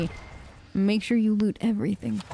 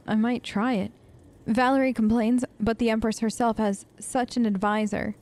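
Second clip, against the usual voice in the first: measured, even read-aloud delivery; reading a note aloud. Acted. Streamer reading a found letter to viewers, even read-aloud voice. Reads a game journal aloud.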